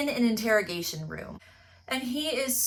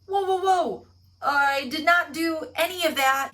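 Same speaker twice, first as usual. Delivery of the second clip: loud, higher panicky whoas; alarmed denial; 7 semitones higher, 4 dB louder than usual. Retold or imitated. Thief accused of murder, hammed-up alarmed denial. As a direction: backpedal fast in mock alarm.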